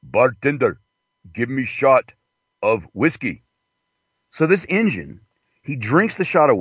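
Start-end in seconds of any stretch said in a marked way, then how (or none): 0.0-3.4 joke character. Acted. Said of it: "He goes".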